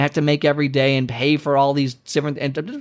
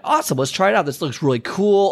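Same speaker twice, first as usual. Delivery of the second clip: excited friend; 4 semitones higher, faster than usual. Acted. Friend excited about new diet.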